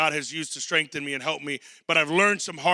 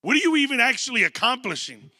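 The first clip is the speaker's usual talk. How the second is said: incredulous father-in-law; 3 semitones higher than usual. Retold or imitated. Jethro confronting Moses about working alone, exasperated. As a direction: call him out like an astonished in-law. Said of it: "he's like".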